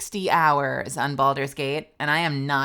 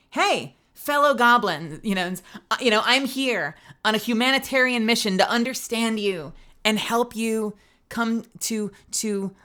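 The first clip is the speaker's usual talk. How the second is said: deliberate and measured, a little raised; 4 semitones higher than usual. Acted. Streamer playing herself greeting the goblins as peace broker, very deliberately. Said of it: "she said very deliberately".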